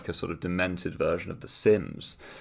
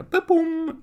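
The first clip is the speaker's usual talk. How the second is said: boom; 6 dB louder than usual. Real, not acted.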